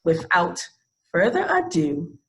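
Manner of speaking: measured read-aloud guest introduction; formal introduction. Real, not acted. Host introduces an actress to the audience, formal introduction. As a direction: present the guest with formal, deliberate phrasing.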